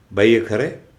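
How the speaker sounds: the boss snapping at the clerk in his cabin; irritated boss. Acted. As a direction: scold her as an irritated boss. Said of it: "पळसुल्यांनी चिडून विचारलं".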